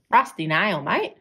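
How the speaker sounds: a broad Australian "Rusty Nail, mate" in jest; mock Australian accent. Shown as a demonstration. Joking about her own accent, ham up Australian accent. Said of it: "I hate the Australian accent".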